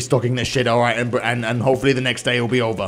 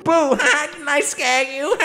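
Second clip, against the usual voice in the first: higher, laughing mock boo; teasing prankster voice; 10 semitones higher, slower than usual. Streamer voicing the coworker gloating about the scare, higher and laughing. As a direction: tease him gleefully for jumping.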